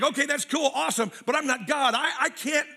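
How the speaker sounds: a hint of exasperated churchgoer; whiny protest. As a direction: whine that you just can't forget. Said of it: "You're like".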